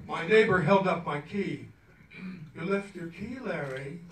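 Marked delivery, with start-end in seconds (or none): 2.6-4.0 mildly. Retold or imitated. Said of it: "he said mildly".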